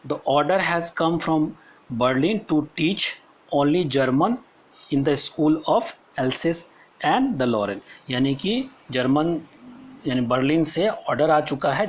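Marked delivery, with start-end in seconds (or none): 0.1-8.1 slow, deliberate classroom reading; measured textbook reading with pauses; read-aloud text. Acted. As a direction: read it out phrase by phrase for students. Reads the story text aloud.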